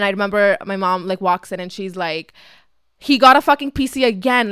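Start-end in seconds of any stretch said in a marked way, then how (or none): 3.0-4.5 mock outrage, a little louder and higher; mad mom. Mom finding another PC box, mildly indignant. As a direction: imitate a mother fed up over a purchase. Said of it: "she gets, like, mad".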